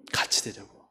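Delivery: hushed, unvoiced aside; whisper. Real, not acted. Preacher whispering Adam's aim to the congregation. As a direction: whisper the point. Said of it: "preacher drops to a whisper".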